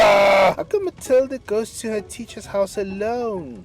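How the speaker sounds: put-on loud, slow whining child shout; protesting shout. Son protesting to his dad. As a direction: yell it like an indignant boy.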